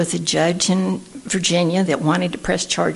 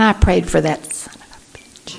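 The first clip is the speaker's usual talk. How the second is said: near-whisper confession; a wry near-whisper confession; hushed confiding. Real, not acted. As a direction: lean in and half-whisper it. Confiding about praying for thief.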